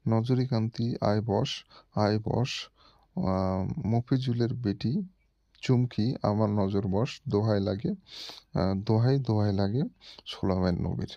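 slow, deliberate incantation with names filled in; mantra recitation. Shown as a demonstration. Showing viewers the full mantra with example names, slow chant. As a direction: chant it slowly, stressing each name. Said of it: "এখানে উচ্চারণ এটা করবেন".

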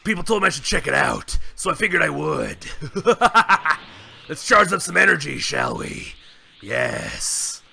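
gruff Saiyan brute hosting his channel; Broly voice. Pretend. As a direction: play Broly as a proud brute greeting fans. Broly character voice throughout.

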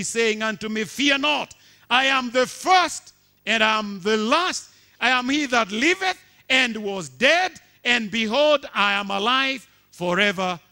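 loud, high declaimed verse; proclaimed scripture. Acted. Preacher reading Revelation aloud to the church, declaiming. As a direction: proclaim the vision. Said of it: "preaching scripture".

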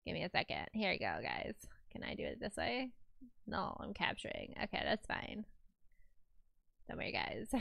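whispering. Real, not acted. Muttering while screen sharing.

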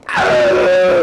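loud scream of revulsion; comic horrified outburst; disgusted scream. Acted. Cries out at freaking toilet.

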